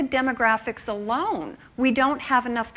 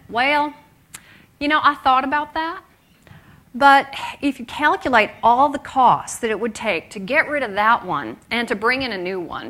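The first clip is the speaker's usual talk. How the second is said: put-on Texas accent; 4 dB louder than usual. Boss Steve explaining he keeps his wife, mild Texas accent. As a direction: play the boss's Texas accent, easygoing and joking. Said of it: "in his best Texas accent".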